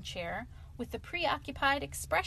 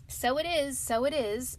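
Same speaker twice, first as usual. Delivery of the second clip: eager, a touch higher and louder; hearty agreement; 4 semitones higher, 4 dB louder than usual. Acted. Mole agreeing heartily with Rat's song. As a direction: nod along with hearty warmth. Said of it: "with great heartiness".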